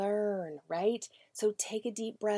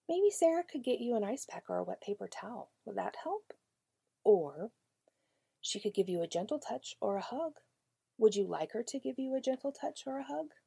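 gentle teacher voice; 4 semitones higher than usual. Acted. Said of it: "So you might say".

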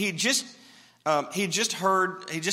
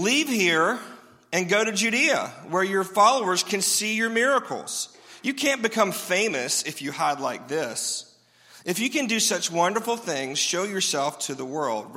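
mocking, sarcastic brothers' taunt, louder; sarcastic reading; 3 semitones higher, 4 dB louder than usual. Preacher mocks Jesus' brothers, sarcastic and loud. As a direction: sneer it like scornful brothers. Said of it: "read in the sarcasm font".

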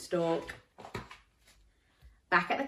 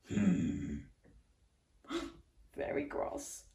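a hint of a cross grumble; cross face; 6 dB quieter than usual. Shown as a demonstration. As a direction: pull a cross face and huff. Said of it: "show me your cross face".

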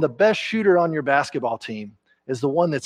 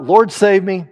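cry for help; 5 semitones higher, 6 dB louder, slower than usual. Acted. Preacher acts Peter crying out.

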